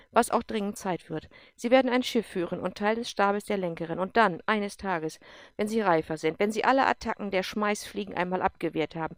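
loud, commanding officer voice; a tough general pressing a colonel hard; stern general. Acted. General challenges Erik, loud and commanding. General lays out his career.

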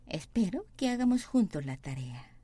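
slow, careful syllable-by-syllable Spanish; slow model reading. Shown as a demonstration. Teacher reading the sentence slowly for students, deliberate. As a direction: read it slowly for learners to copy. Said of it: "teacher models sentence slowly".

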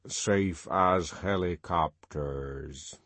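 slow, low reassurance; reassuring. Acted. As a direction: calmly assure him. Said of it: "the octoroon assured him".

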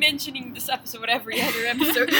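laughing. Real, not acted. Laughing question.

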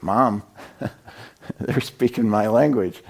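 a hint of an amazed small boy, slow, laughing through it; slow, wondering child's voice, half laughing; lightly voiced little boy. Adopted boys hearing their language.

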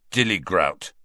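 understated sullen password; darkly. Acted. Ron to the fat lady, mildly dark. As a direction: give the password with muted gloom. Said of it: "he said darkly".

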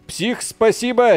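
high, slow, sing-song thank you; drawn-out thanks. Real, not acted. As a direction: stretch the thanks out warmly. Thanking a donor.

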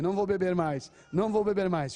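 loud mock vow; acted-out loud determination; emphatic resolve. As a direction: declare it forcefully, as a drinker resisting. Acts out drinker resisting the bottle.

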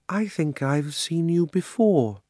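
slow, high and drowsy; half asleep and content; dreamy and contented. A narrator's reading. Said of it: "in a dreamy, contented sort of voice".

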